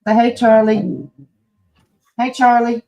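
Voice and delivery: high, slow coaxing pet voice; sing-song high coaxing. Real, not acted. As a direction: coo at the dog to say hey.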